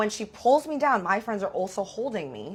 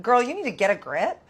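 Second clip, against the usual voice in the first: sassy telling-off; 5 dB louder than usual. Retold or imitated. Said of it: "I'm like".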